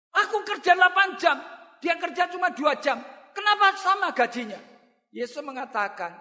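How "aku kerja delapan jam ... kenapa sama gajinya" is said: raised, higher protest over unfair pay; indignant complaint. Retold or imitated. Worker complaining to landowner about equal pay, raised indignant voice. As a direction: push back loudly, feeling cheated.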